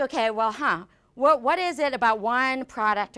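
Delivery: retold thinking aloud, mildly puzzled; puzzled musing. Product manager recalling a failed launch, puzzled musing. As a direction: wonder it through as if to yourself. Acting out own puzzled thoughts.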